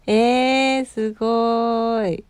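slow, drawn-out wow; impressed wow. Real, not acted. Host reacting to a listener's ancestral inn, drawn-out impressed wow. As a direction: stretch the wow out, genuinely impressed.

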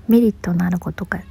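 tongue slipping while lying in bed; sleepy slurred メリット, lying down. Real, not acted. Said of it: "横になってるから口が回ってない".

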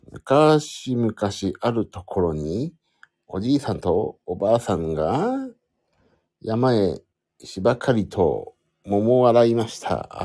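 measured Momotaro tale-telling with drawn-out phrases; lightly performed story narration; storytelling. Shown as a demonstration. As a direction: tell a folk tale as a mic test. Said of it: "桃太郎のお話しますから".

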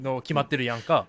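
ordinary talk

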